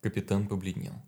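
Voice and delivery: ordinary delivery, nothing marked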